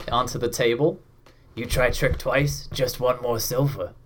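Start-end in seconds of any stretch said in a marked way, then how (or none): 1.5-3.9 a touch of a warning, simple orc; half-orc bartender. Acted. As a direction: warn the trickster like a dim brute. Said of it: "half-orc bartender".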